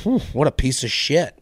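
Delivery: muttered imagined gossip. Retold or imitated. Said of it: "imagine their conversation of".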